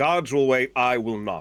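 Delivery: deliberately spaced shout back. Voicing a character answering the party as she walks off: Kyra shouting back. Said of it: "Kyra just kinda shouts back".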